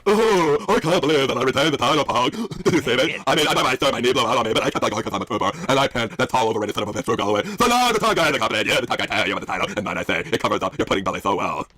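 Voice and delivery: Cody. Acted. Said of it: "I could be Cody for this".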